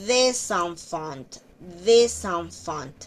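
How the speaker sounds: "des enfants" with a linking z; liaison demo. Shown as a demonstration. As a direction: glide into "enfants". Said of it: "igual que aquí arriba". (enlace en "des enfants")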